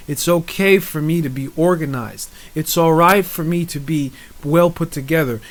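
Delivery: measured, even affirmation chant line by line; spoken affirmations. Acted. Speaker leading listeners through affirmations, calm recitation. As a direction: recite each self-affirmation calmly for the listener to echo.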